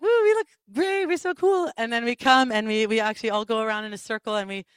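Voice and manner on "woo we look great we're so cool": high, cocky whoop; hammed-up cheer. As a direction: show off like a proud kid. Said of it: "Just like".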